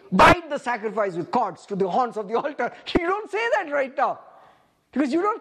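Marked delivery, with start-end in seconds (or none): 0.1-2.7 raised voice, hard hit on the opening; mock command. Preacher voices what the congregation should not say, mock command. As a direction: call it out as a wrong response. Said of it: "your job is not to say".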